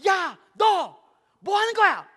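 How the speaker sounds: high, punched shout in short bursts; acted mother shouting at a child in danger; urgent scolding mom. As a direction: yell it in a few urgent words. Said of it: "엄마 말이 급하죠".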